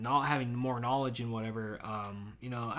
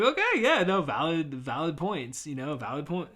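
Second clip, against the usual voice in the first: mock agreeable. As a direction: toss off a fake-polite okay. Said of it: "I'm like".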